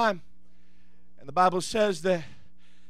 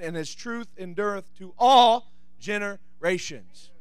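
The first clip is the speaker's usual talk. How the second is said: scripture reading. Real, not acted. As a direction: read the psalm out slowly and deliberately, pausing between phrases. Reads a psalm aloud.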